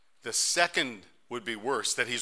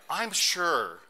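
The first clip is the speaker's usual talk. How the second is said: high, loud, laughing call to his wife; a gardener calling to his wife about missing clothes, calling out while laughing; 7 semitones higher, 10 dB louder, much slower than usual. Pretend. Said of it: "and thought".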